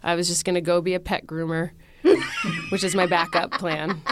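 talking through a real laugh. Real, not acted. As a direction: laugh at her own overreaction as you speak. Laughing at own fear.

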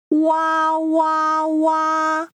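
stylized "wah" crying, held level; pretend crying. Teacher acts the little piggy crying for learners, pretend wail. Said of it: "the sound of crying in Mandarin".

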